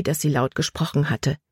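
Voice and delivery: ordinary delivery, nothing marked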